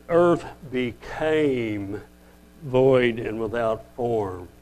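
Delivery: "became" drawn out very slowly; stress on became. Shown as a demonstration. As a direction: linger on "became", then read slowly on. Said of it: "you could actually correctly say".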